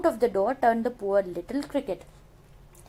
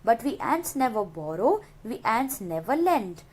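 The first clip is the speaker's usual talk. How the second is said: poem recitation. Shown as a demonstration. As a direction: read the stanza aloud like a poem. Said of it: "Now the third stanza".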